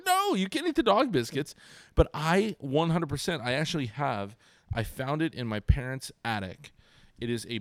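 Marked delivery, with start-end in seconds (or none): 0.1-1.5 retold dad refusal. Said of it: "And I'm like".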